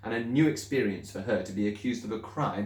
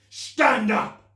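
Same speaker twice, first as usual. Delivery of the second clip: much higher, louder, far-off barked command; angry order; 13 semitones higher, 8 dB louder than usual. Acted. Headmistress ordering the pupil up in anger. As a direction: bark the order.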